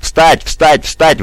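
high, urgent repeated shouts; yelled command. A narrator's reading. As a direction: shout the men onto their feet. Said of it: "вопил Дев". (резкая команда высоким криком)

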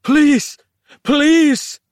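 very high, loud begging wail; desperate pleading cry. A narrator's reading. Capello begs as the Speedos are pulled on, high and desperate. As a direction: beg for mercy in agony. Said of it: "cried the Italian".

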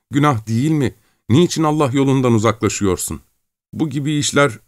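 high, wailing lament; distraught, high-pitched whine of protest; tearful pleading. A narrator's reading. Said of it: "Bir yandan da ağlıyordu".

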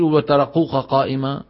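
"وتركوك" thickened, its k pushed back to a qaf; kaf like qaf. Shown as a demonstration. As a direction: make the k of "وتركوك" heavy, like q. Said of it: "ما بيصير".

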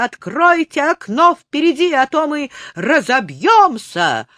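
high-pitched urgent cry; alarmed shout. A narrator's reading. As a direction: beg loudly in a panic. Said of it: "закричал Незнайка".

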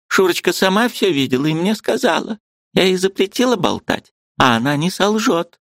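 put-on high, indignant old woman's voice; angry old aunt. Aunt bursting in to scold her niece, high and indignant.

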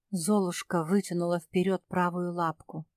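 plain reading voice

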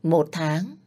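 a touch of a haughty, taunting voice; sister-in-law confronting the narrator, mildly taunting. Acted. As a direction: lord it over her lightly with a lifted tone. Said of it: "rồi lên giọng".

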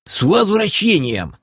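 big hearty welcome, high and loud; booming greeting. Acted. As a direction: call out a warm welcome. Bom greets loudly, fantasy audiobook.

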